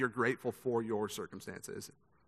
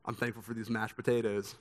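a sly smirk in the voice; deadpan quip with a smirk; dry joke to dodge the question; 2 semitones lower, 3 dB quieter than usual. Retold or imitated. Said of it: "with a smirk on my face, just like this".

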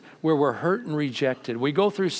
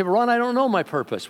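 doubting listener; 8 semitones higher than usual. Retold or imitated.

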